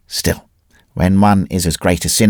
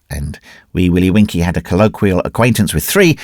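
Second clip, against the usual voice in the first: plain reading voice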